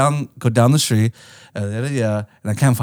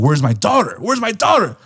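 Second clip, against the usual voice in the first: demanding parent; 5 semitones higher than usual. Retold or imitated. Acting out the worried family.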